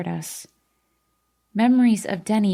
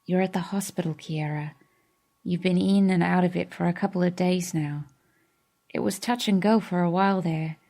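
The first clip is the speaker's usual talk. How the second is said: gentle comfort; 3 dB quieter than usual. Acted. Denny gently explains to Kiera.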